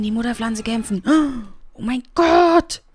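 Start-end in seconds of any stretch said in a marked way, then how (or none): 1.7-2.8 high, loud and frantic; excited squeaking. Real, not acted. Streamer panics as possessed Sims appear, high and loud. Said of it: "wie so ein Bekloppter wieder rumquietsche".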